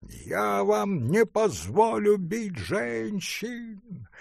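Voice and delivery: shrill furious artist, high and slow; piercing protest; piercing shout. A narrator's reading. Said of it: "пронзительный голос художника". (пронзительный крик художника)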